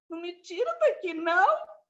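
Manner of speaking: pleading patient. Retold or imitated. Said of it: "falei assim".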